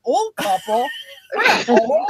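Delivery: mock-offended echo, jumping up high; retold indignation. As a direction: act out playful disbelief at the label. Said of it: "I'm like".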